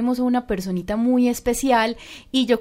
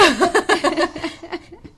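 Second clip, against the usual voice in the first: amused laugh; 7 semitones higher than usual. Real, not acted. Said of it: "Ay, está llorando".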